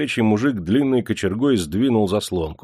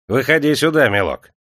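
raised coaxing summons; sugary call; 6 semitones higher, 4 dB louder than usual. A narrator's reading. Clerk calls Ivashka out of the crowd, sugary. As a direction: beckon with mock affection. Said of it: "слащавым голосом окрикнул он".

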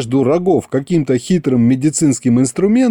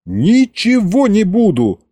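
high, slow pleading vow; earnest vow; 8 semitones higher, slower than usual. A narrator's reading. Patient swears to the king, high and pleading. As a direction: swear it desperately. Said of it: "поклялся я".

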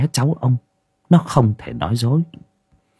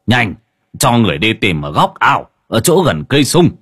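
loud urgent order, rising louder; commanding call; 3 dB louder than usual. Acted. Old shaman orders villagers to search near the fig tree, loud command. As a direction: bark orders to search the pond corner. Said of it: "Ông hô to".

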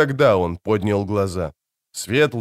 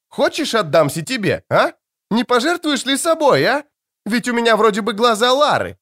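mocking taunt; 11 semitones higher than usual. A narrator's reading. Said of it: "рявкнула она".

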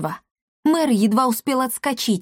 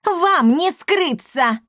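higher, slower shriek; визг; 8 semitones higher, much slower than usual. A narrator's reading. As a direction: shriek after them from the porch. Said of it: "завизжала Лавдотья". (визгливо кричит вслед убегающим с крыльца)

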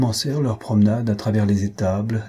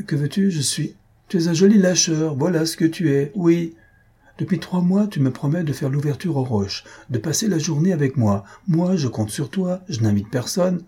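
higher-pitched acted reproach; reproachful; 5 semitones higher than usual. Friend chides his guest for leaving him alone, reproachful. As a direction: scold a friend who keeps letting you down.

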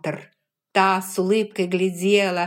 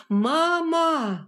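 higher hoarse shout; hoarse cry; 11 semitones higher, 3 dB louder than usual. Acted. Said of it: "хриплый крик его племянника". (хриплый крик)

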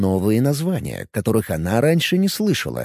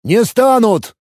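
loud roar; 10 semitones higher, 5 dB louder, slower than usual. A narrator's reading. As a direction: Hank roars at the elf's joke, full bellow. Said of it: "взревел Хэнк".

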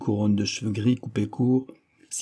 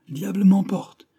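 Diable m'emporte! shouted much higher by a whole class; children shouting; 9 semitones higher, 3 dB louder than usual. A narrator's reading. Whole school cries out the oath with glee, loud and high. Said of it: "toute l'école s'écria".

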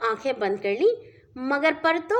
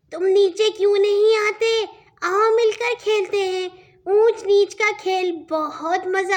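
playful little fish; 5 semitones higher, 4 dB louder than usual. Acted. Little fish calls the chick.

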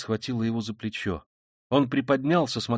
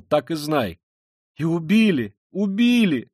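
agitated, raised voice with sudden peaks; bitter confessing man; 4 semitones higher, 4 dB louder than usual. Acted. Killer explaining himself to Sonya, bitterly agitated. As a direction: build to a tormented admission.

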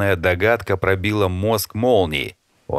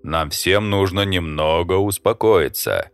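placating. Acted. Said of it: "примирительно поднял руки".

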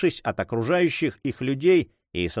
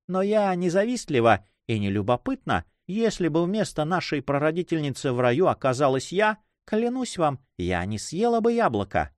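a slightly higher, coquettish lady's voice; lightly voiced teasing lady; 5 semitones higher than usual. Young woman teases her friend's admirer, lightly coquettish. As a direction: lightly suggest a playful coquette.

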